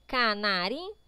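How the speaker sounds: Canarinho divided into ca-na-ri-nho; syllable by syllable. Shown as a demonstration. Teacher counts syllables for the exercise, syllable by syllable. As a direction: step through Canarinho piece by piece. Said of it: "separe a sílaba das palavras".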